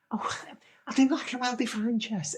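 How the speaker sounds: high-pitched contestant voice; imitated dating-show contestant. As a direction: mimic her sizing someone up. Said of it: "And she says".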